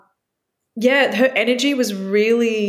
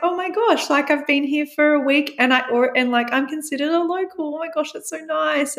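gushing excited; 5 semitones higher than usual. Retold or imitated. Her gushing inner reaction.

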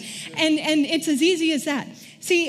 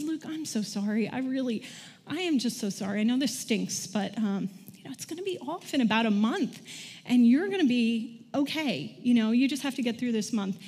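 comforting; 2 semitones lower, 5 dB quieter than usual. Retold or imitated. Comforting son with broken ankle.

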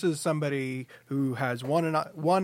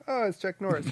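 looking down, recognizing; 5 semitones higher than usual. Retold or imitated. Correcting the retold meeting because he's short, underwhelmed recognition. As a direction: greet someone shorter than expected. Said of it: "'cause he's kinda short".

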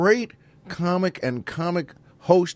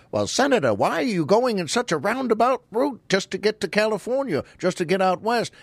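Fred Allen; 5 semitones higher than usual. Retold or imitated. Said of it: "Fred would say to him".

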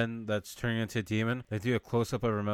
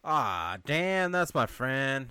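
dismayed; 2 semitones higher, much slower than usual. Retold or imitated. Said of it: "he's like".

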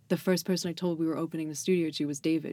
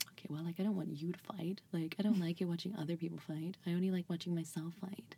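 small, softened voice; hushed mock-meek admission; mock sheepish; 8 dB quieter than usual. Answering a friend's wake-up call, mock sheepish.

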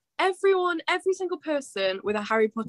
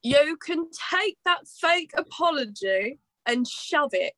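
slow, raised imitation of a friend; Kathy; 4 semitones higher than usual. Host teases a player by reading in her voice, slow mimicry. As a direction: mimic your co-player, drawn out and higher. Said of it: "Do you want me to do this in Regina's voice?".

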